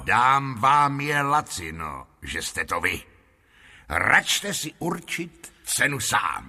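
lightly voiced salesman, slowly drawn out; obliging showman. Lotrando lets the lord name a price, obliging showman. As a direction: offer the bargain as a personal favour.

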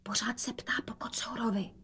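very soft whisper. A narrator's reading. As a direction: whisper it to the mother. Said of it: "dodala šeptem". (tichý šepot)

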